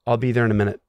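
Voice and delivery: unemotional retold reply; expressionless. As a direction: give it matter-of-factly, with nothing behind it. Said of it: "Just like that".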